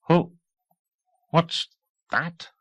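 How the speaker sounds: high startled question; quick puzzled ask; surprised. A narrator's reading. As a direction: technician startled. Technician surprised in background.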